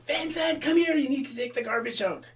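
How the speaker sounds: loud, high demand; mother ordering, high and loud; mother calling. Retold or imitated. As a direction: order him to take the garbage out. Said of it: "She said".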